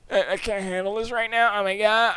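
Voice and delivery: high, loud, hammed-up whine; put-on whining with long groans; whiny meltdown. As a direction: wail it loudly in mock overwhelm. Replays the whining, now loud.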